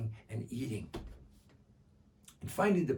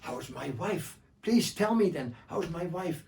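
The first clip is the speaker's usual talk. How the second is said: eager asking; 4 semitones higher than usual. Acted. Bedou asks about wife.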